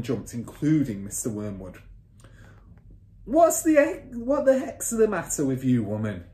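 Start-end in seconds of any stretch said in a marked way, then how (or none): 3.2-6.2 high, loud indignant shout; father's shout. A narrator's reading. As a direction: shout it as an irritated husband. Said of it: "he shouted".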